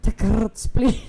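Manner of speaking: Takarts said with a rolled R. Shown as a demonstration. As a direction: roll the R in Takarts. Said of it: "If you do it with an Italian accent".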